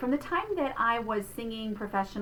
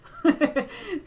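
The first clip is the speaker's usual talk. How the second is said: exaggerated cat hiss breaking into a laugh; violent cat hiss; 7 semitones higher, 6 dB louder than usual. Shown as a demonstration. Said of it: "this violent cat hiss".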